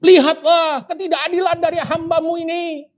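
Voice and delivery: high, pleading prayer to God, acted by the preacher; Hana's bitter prayer. Preacher voices Hana begging God against her rival, high and pleading. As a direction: plead with God for justice, half in mock. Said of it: "Hana bisa berdoa".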